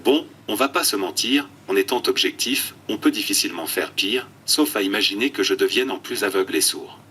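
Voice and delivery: computer text-to-speech voice; flat synthetic speech from an eye-tracking tablet. Real, not acted. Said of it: "une tablette oculaire et une voix de synthèse". (voix de synthèse robotique)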